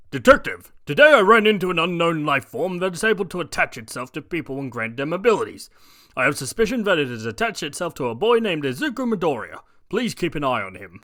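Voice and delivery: loud urgent report; briefing the detective on the run; All Might voice. Acted. All Might on a phone call to the detective, loud urgent report.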